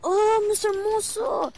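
high, slow excited call. Real, not acted. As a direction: call it out, surprised. Spotting enemy in game.

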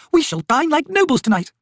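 very high, gushing noblewoman; delighted cry. A narrator's reading. Lady relishing the coming feast, delighted cry. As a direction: exclaim grandly, pitched right up. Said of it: "Lady Envy cried".

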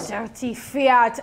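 slow, lightly mocked German dirty fiat; imitating German accent. Host echoing the clip's speaker, slow mock German accent. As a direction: savour the phrase in a mock German voice. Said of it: "that's what it sounds like".

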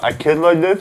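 words slurred by the tongue; tongue sticking out. Real, not acted. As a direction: speak with tongue hanging out. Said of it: "my tongue was out".

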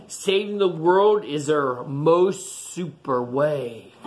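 slow, drawn-out closing line; slow storybook ending. A narrator's reading. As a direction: land the page's ending slowly. Reading picture book, slow ending.

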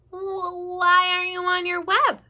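high anxious pig voice; alarmed Wilbur. Acted. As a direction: ask it in alarm.

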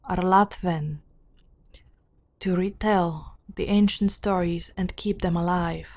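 measured, deliberate storybook reading; formal fantasy narration; lore narration. A narrator's reading. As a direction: read out old lore in even phrases. Reads game lore aloud.

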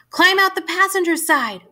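high-pitched, pressing command; urgent order. A narrator's reading. Mother telling her son to escape the car, urgent. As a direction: urge an immediate escape.

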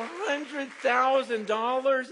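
slow, loud, high question; amazed disbelief. Real, not acted. Preacher reliving the offer, loud slow disbelief. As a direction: savour the amount in shock.

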